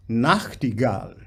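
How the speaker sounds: weight "Nacht", still give "gall" its due; stronger NACHT, clear GALL. Shown as a demonstration. Coach balancing the word for singer, "Nachtigall" led by "Nacht". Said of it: "Nacht is a bit more important than Gal".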